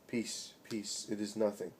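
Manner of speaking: soft, hushed calming words; quiet them gently, softly; soothing hush. Acted. Jesus softly hushing the grieving crowd, hushed.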